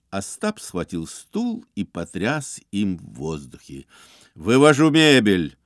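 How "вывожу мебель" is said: louder firm statement. A narrator's reading. Ostap declaring to Iznurenkov he takes the chair, firm and louder. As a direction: declare it with no room to argue. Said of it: "решительно заявил Бендер".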